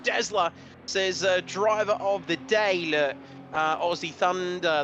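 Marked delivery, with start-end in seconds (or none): 1.5-4.8 put-on a light touch of an Aussie accent, barely changed from his own; Martin's accent. Commentator borrowing a colleague's Aussie accent for a quote, only lightly done. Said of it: "say that like Martin".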